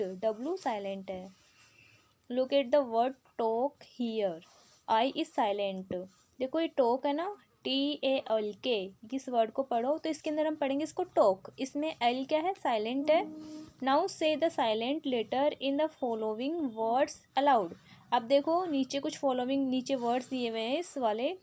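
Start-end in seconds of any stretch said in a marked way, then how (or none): 2.3-5.9 slow, deliberate reading of an English instruction; slow textbook read. Acted. Teacher reads the book's question to pupils, slowly. 13.8-17.7 slow, deliberate reading of an English instruction; slow textbook read. Acted. Teacher reads the book's question to pupils, slowly.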